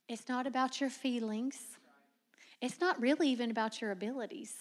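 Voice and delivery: soft unvoiced whisper. Real, not acted. Preacher whispers to the congregation about feelings. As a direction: drop to an intimate whisper. Solemn turn after story.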